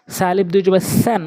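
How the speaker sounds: স্যান with tongue tip at the teeth. Shown as a demonstration. Teacher shows where the tongue goes, স্যান with tongue tip to teeth. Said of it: "জিব্বার আগা দাঁতের আগা".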